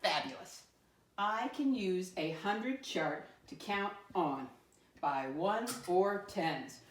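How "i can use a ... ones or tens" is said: slow, deliberate reading of the statement; slow teacher read-aloud. Shown as a demonstration. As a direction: read it slowly so the class can follow along. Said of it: "let me read our I can statement".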